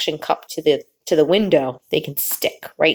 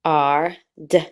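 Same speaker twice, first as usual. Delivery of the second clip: put-on slow, drawn-out reading for children; slow read-aloud; slower than usual. Shown as a demonstration. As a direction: read it slowly so kids can follow. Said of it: "try to read along with me".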